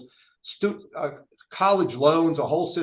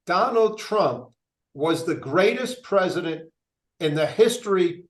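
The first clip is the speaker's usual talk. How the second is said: slow, hammed-up proclamation of a devoted Trump fan; quoting a Trump fan; 2 semitones higher, slower than usual. Mayor mocking the Trump guy at meetings, slow solemn proclamation. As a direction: drag each phrase out like gospel, pitched up.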